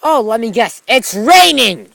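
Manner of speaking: sarcastic guess. Real, not acted.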